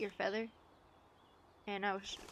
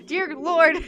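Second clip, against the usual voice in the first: loud, higher, astonished outburst; surprised exclaim; 8 semitones higher, 16 dB louder than usual. Real, not acted. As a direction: blurt it in amazed disbelief. Sees whole family of pigeons.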